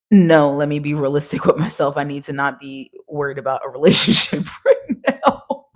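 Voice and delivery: laughing through it. Retold or imitated. Mock self-talk quote, laughing.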